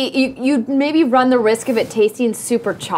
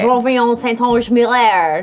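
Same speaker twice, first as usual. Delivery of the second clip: name said the French way; French-style pronunciation of the name; French accent. Real, not acted. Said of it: "I like that you say it with the accent".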